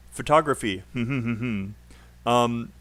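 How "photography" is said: photography with the stress on TOG; stress demo. Shown as a demonstration. Teacher demonstrating word stress, photography stressed on TOG. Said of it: "just to give you an example".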